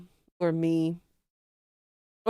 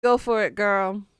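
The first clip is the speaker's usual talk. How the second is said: loud cheer; 7 dB louder than usual. Real, not acted. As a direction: shout it out, louder. Cheering a chatter on.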